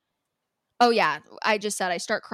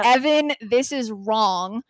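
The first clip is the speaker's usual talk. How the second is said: louder, name called out, then a slow this is wrong; slow, firm retold confrontation; 5 dB louder, slower than usual. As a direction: call out to Evan, then lay it down slowly. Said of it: "I turn around and I say loudly".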